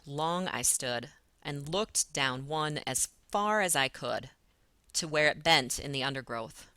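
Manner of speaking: deliberate scansion with pauses between phrases; metrical stress demo. Shown as a demonstration. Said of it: "keep doing that same thing".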